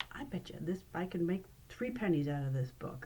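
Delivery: a hushed, secretive bet; whispered boast. Pretend. Magician whispering the bet to a friend, hushed. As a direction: lean in and whisper the dare.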